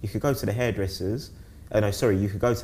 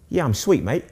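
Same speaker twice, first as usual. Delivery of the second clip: laughing through a casual reply; sheepish laugh while answering; 7 semitones higher, 5 dB louder than usual. Retold or imitated. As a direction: chuckle as you brush it off. Laughing at own awkward reply.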